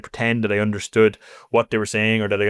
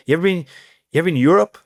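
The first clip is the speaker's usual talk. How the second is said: incredulous teammate; 6 semitones higher, 4 dB louder, faster than usual. Retold or imitated. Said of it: "It's like".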